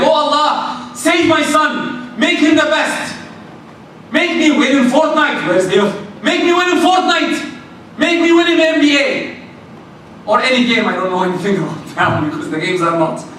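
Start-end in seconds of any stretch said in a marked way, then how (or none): 0.0-9.1 pleading dua. Retold or imitated. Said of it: "You can say any dua".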